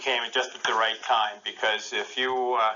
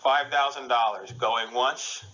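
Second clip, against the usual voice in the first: slow, drawn-out auction call; auctioneer; slower than usual. Pretend. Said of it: "I'm gonna be the auctioneer".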